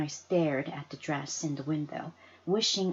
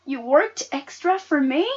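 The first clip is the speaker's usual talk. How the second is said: tearful; 7 semitones higher, 9 dB louder than usual. Acted. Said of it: "Tears welled up in my eyes".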